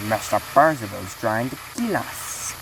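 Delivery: lightly put-on Scottish accent; a hint of Scottish in the voice. Shown as a demonstration. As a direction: try a mild Scottish engine character. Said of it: "Here's my accent of him".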